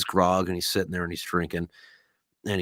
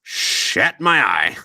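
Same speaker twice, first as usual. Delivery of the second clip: embarrassed; 6 dB louder, much slower than usual. Acted. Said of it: "he kinda looks embarrassed".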